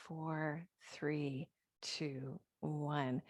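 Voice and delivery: soft breath counts with throat constriction; ocean throat breathing. Shown as a demonstration. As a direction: count slowly over ujjayi breaths. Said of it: "slight constriction on the back of the throat".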